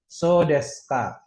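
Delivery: So desu ka slowly, as "soo des ka"; silent u. Shown as a demonstration. Teacher demonstrating a phrase, silent u. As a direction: drop the u in desu of So desu ka. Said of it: "U-nya nggak dibaca".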